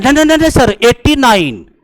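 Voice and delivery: mock eager student correcting the teacher; student protesting. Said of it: "एक student बोला था हमसे".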